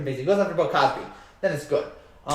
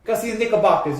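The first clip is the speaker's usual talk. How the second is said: put-on not-great New York accent, slightly higher; 4 semitones higher than usual. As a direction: badly imitate a New Yorker's accent. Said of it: "I don't have a great New York accent".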